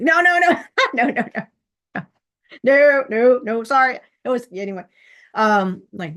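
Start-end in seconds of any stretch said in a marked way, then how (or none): 0.0-4.0 higher, laughing "no, no" in an embarrassed rush; laughing denial. Retold or imitated. Telling a friend he doesn't look disappointing, laughing. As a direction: laugh off the idea with a string of no's. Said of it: "I'm like".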